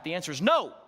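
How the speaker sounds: "no" said fast, flat and final with a falling finish; emphatic no. Shown as a demonstration. Husband answering wife's dress question, an instant emphatic "no". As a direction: snap out "no" with no hesitation. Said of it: "as quickly and as emphatically as possible".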